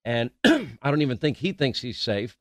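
clearing a cough mid-sentence; sick, coughing through the line; coughing fit. Real, not acted. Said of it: "I apologize for coughing today".

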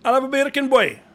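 hammed-up Jamaican order; mock Jamaican accent. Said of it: "bacon in Jamaican".

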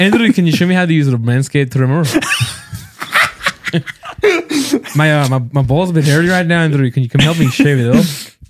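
put-on a jokey Northern Irish accent that drifts Scottish. Joking to the co-host in a put-on Northern Irish accent. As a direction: ham up a Northern Irish lad asking a mate for help. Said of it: "Northern Irish".

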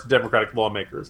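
normal talking voice

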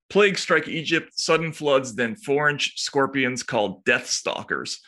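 slow, weighty news read with a lift in pitch; mildly dramatic newsreader voice. Acted. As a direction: read the scorpion story like breaking news. Reads news story dramatically.

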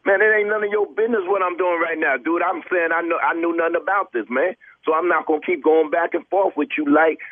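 indignant. Real, not acted. Star telling off the clerk who keeps pushing him, riled up. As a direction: push back hard, offended.

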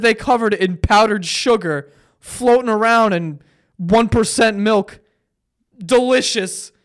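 loud, heated anti-cereal tirade; worked-up loud ranting; fired-up rant. Real, not acted. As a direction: rant like it personally wronged you. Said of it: "I'm fired up right now".

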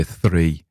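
THREE with a clearly sounded northern R; R flapped or rolled. Shown as a demonstration. Showing the THREE still heard locally, R sounded. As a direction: give THREE its old northern R. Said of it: "with a R".

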